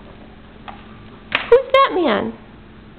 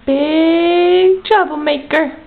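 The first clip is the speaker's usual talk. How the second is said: long stretched-out first word; playful teasing; much slower than usual. Real, not acted. Mother teasing baby who is into everything, slow playful drawl. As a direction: draw it out slowly to tease.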